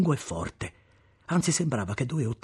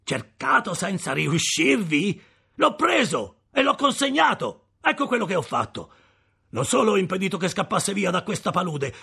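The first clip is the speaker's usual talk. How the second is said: high, loud, scornful tirade; contemptuous rant; 9 semitones higher, 6 dB louder than usual. Acted. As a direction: pour scorn on him at full voice. Convict ranting at his enemy.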